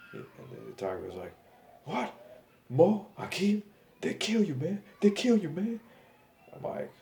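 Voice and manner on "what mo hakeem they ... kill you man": high, loud imitated Nigerian accent. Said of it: "With his Nigerian accent".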